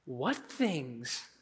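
low, soft feigned ignorance; sarcastic. Acted. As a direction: play dumb, very quietly and drily. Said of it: "so sarcastically".

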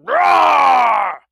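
loud, held roaring shout; big hammed-up dragon roar. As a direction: bellow like a furious dragon. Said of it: "with his roar".

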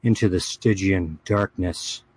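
dramatic fantasy chronicle reading; story narration. Acted. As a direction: read it like an epic saga. Reads a fantasy chronicle aloud.

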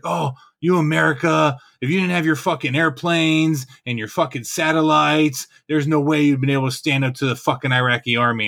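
a touch of imitated jeering; retold taunting. Iraqi sergeant talking shit to American soldier, taunting. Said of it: "this dude's talking shit to me".

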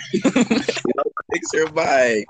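muffled bad-mic underwater sound; slow, like talking from under water. Real, not acted. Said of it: "sound like he underwater".

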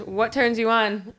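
soft and slow, teasing; a softly drawn-out, teasing question for the friends; sultry question. Shown as a demonstration. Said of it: "Today's question is".

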